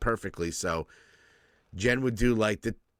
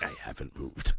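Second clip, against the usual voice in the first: very high, squeaked line; squeaky high; 3 dB quieter than usual. Pretend. Joking about never leaving the house, squeaked very high. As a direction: squeak it in a tiny voice. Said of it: "It's like".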